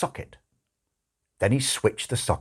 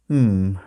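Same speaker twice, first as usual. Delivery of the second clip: doubtful hum; 3 dB louder than usual. Acted. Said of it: "looked doubtful".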